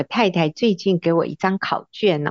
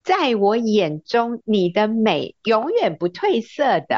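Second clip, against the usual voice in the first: sincere compliment; 4 semitones higher than usual. Retold or imitated. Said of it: "那你就要跟你太太说".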